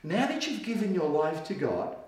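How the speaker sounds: God's words, hushed and slow with long pauses; soft and slow. Acted. Preacher voicing God's promise to the church, hushed and slow. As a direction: let each word fall softly apart. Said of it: "what God says".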